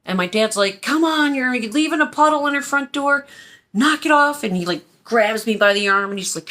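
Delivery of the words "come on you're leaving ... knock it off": raised, higher-pitched exasperated order, imitated; scolding dad. Dad telling his child off at the front door, exasperated. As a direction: tell a child off impatiently, pitched up.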